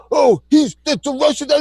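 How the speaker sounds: high, wailing imitation of sore losers; mock crying. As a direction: mimic them whining in tears. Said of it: "They're all crying".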